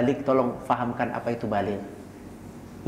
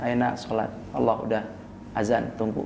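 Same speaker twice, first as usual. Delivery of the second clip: softer, lower, tender call to prayer; gentle coaxing; 4 semitones lower, 4 dB quieter than usual. Retold or imitated. Parent gently waking a child for prayer, tender. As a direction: coax the child softly while stroking his head. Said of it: "Bangunin, elus palanya".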